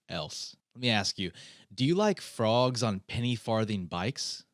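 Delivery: over-the-top ad read; yelling. Acted. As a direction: shout the sponsor pitch like a TV pitchman. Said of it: "I'm sorry I was yelling".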